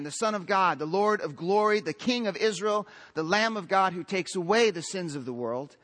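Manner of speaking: fervent pulpit proclamation; preaching at full force. Acted. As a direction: build the titles like a roll call of praise. Preaching crescendo of Christ's titles.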